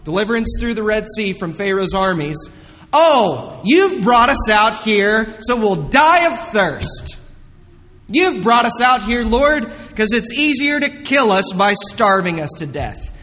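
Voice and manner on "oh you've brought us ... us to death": grumbling complaint. Acted. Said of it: "They grumbled".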